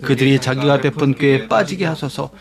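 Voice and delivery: low, even verse recitation; scripture reading. Acted. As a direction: read it out evenly, as with a congregation. 성경 구절을 함께 낭독. (낮고 고른 성경 낭독)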